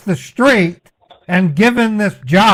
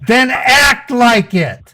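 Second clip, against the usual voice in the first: shouting; 4 semitones higher, slower than usual. Real, not acted. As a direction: spit each word out. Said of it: "Sir, why are you shouting?".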